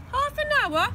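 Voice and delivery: high, loud shocked cry; Dad explodes in disbelief; exploding shout. A narrator's reading. Father erupting at son over phone bill, high shout. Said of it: "Another explosion from Dad".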